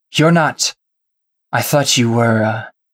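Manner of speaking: feminine, woman's voice. Narrating a scene, the speaker voices an unseen character in a feminine voice. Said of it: "You hear a feminine voice say".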